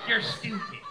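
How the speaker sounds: mock scolding wife; nagging wife. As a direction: snap at him like a bossy wife. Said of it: "She's like".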